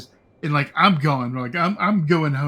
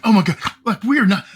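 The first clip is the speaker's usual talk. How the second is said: much louder, a bit higher, mock shriek; dates freaking out; 5 semitones higher, 6 dB louder, faster than usual. Prom dates shrieking at the brother's lie, louder excited squeal. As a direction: squeal it like a panicking prom date. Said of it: "his date and my date are just losing their shit".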